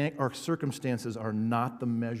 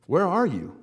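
loud, higher cry of Where are you; crying out to God; 6 semitones higher, 11 dB louder than usual. Retold or imitated. Preacher voicing grieving disciples, a loud anguished cry. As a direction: throw the question up at heaven. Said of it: "what we often say when tragedy happens".

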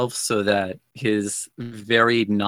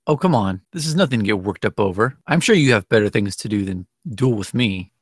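laughing dismissal; 4 dB louder than usual. Acted. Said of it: "continue to laugh, just be like".

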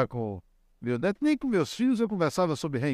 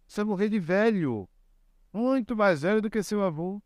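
put-on higher, gentle soothing of a small child; reassuring grandfather; 6 semitones higher than usual. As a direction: coax the boy out of his fear, lightly.

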